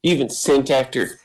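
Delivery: lightly voiced, halting for emphasis between phrases; measured, understated grievance, each phrase set apart; stutter-free daughter. Daughter confronting her father, lightly voiced, fluent and deliberate. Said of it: "the stutter in her voice is gone".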